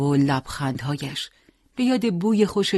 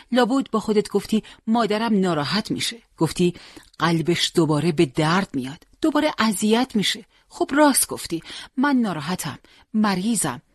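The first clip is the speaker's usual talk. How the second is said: grieving mother. Acted. Mother reproaching Hossein for leaving without goodbye, rising plea. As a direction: plead and reproach, voice climbing.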